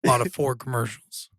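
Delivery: hoarse, raspy throat. Real, not acted. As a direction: talk through a raspy sore throat. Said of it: "his voice is a little raspy".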